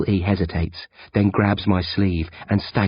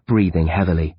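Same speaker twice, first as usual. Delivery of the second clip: plain reading voice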